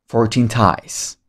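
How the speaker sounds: slow, careful fourteen ties; slow model. Shown as a demonstration. Teacher repeating fourteen ties slowly for students. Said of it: "Pedro has".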